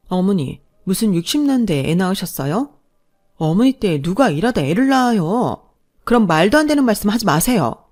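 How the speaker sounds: mildly exasperated comeback; retorting daughter-in-law. Acted. Daughter-in-law rejecting mother-in-law's old-fashioned view, exasperated. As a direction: talk back in disbelief.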